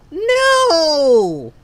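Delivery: sudden loud shout of refusal; real yell. Real, not acted. Player refusing the unwanted character, with a loud yell. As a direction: bark a loud no. Losing the banner pull.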